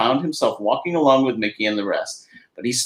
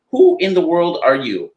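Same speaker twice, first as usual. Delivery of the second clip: startled cry; 6 semitones higher, 5 dB louder than usual. Acted. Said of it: "he cried".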